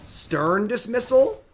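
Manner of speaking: high, slow, drawn-out surprise; stunned, stretched question; shocked disbelief. Real, not acted. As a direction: react as if robbed. Opponent plays counter.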